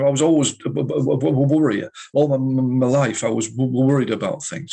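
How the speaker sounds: stammering. Retold or imitated. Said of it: "stammering his words out and stuttering".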